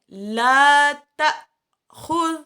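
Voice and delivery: slow recited لا تاخذ, each syllable drawn out; Quranic recitation demo. Shown as a demonstration. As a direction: chant لا تا خذ slowly as in tajweed. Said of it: "اب دیکھیں".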